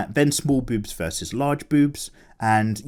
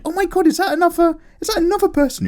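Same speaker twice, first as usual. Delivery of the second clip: high surprised exclamation; faster than usual. Real, not acted. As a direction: gasp it out in disbelief. Surprised at similar comment.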